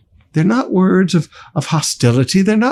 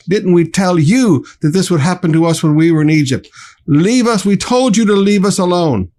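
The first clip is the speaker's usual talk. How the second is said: fast, louder, blaming voice; angry complaint; 3 semitones higher, 3 dB louder than usual. Acted. Frightened people angrily blaming their leader, fast heated complaint. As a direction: rush the accusations at Moses. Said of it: "they're angry and they always blame leadership".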